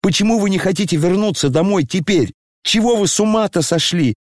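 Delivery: exasperated, pitched high; boiling over. Acted. Коля раздражённо кричит на отца, резко и высоко. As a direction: voice climbing in anger at father. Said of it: "закипел вдруг Коля".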